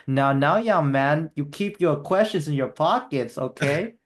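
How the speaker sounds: slow, lightly voiced Tommy Wiseau scolding; a hint of Tommy's odd, fatherly lecture, drawn out; imitating Tommy. Retelling Tommy's scolding reply.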